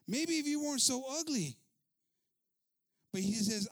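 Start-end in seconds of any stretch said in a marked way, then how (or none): 0.1-1.6 high, loud retold comeback; loud retort. Preacher repeating the man's comeback to the attendant, loud retort. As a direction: throw the insult back, louder and higher.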